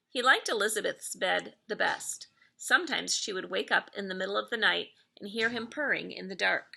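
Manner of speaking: gentle read-aloud storytelling voice; lightly lilting storybook narration; story narration. A narrator's reading. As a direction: read it like a bedtime story for kids. Reads picture book aloud.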